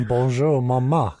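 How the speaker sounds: mock French accent. Impostor greeting his new mother, French accent. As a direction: put on a hammy French accent. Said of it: "terrible French accent".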